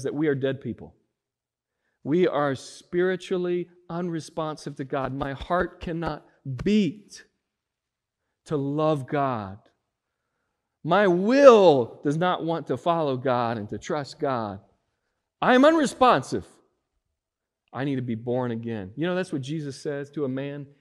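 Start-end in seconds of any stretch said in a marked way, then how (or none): 5.1-16.5 louder, building sermon voice; full-force preaching. Acted. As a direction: preach it, rising to a cry.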